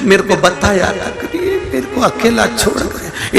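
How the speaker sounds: mildly whimpered imitation of a widow; rising, lightly hammed-up lament; mock weeping. Widow lamenting to the guru why he left her, mock weeping. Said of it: "क्यों रो रही है?".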